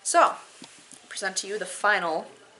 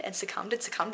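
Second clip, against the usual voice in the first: whisper; 6 dB quieter, faster than usual. Acted. Repeated refrain in poem.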